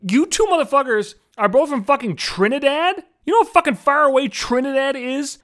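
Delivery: rising into high disbelief at the end; surprised. Retold or imitated. Two Trinidad women finding out they share a hometown, incredulous. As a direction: imitate two strangers stunned to learn they're both from Trinidad.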